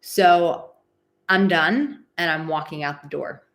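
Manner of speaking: lightly acted firm warrior, loud openings; emotional warrior. Coach modelling shutting down a malicious person, emotional warrior. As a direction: put your foot down, slow and emphatic. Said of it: "emotional warrior raises its swords and goes".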